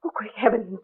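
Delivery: sudden alarmed question; startled. Acted. Neighbour startled by a crash in the next room. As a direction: jump at the noise.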